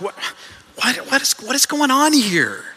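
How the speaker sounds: bewildered, high-pitched demand; acted-out baffled interrogation; belligerent questioning. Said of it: "painful interrogation and kind of a belligerent question".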